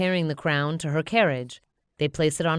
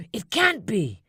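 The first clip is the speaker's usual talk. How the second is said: exclaiming; 5 semitones higher than usual. Acted. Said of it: "a man exclaims".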